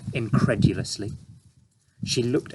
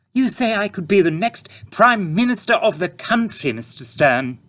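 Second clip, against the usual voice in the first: thoughtfully; 11 semitones higher, 5 dB louder than usual. A narrator's reading. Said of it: "said Mother, thoughtfully".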